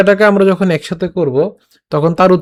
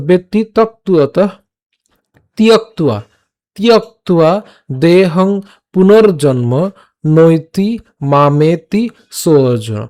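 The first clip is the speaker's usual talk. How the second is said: slow shloka in separated phrases; verse recitation demo; much slower than usual. Shown as a demonstration. Teacher models the verse for learners to repeat, measured recitation. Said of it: "নিজে উচ্চারণ করবেন".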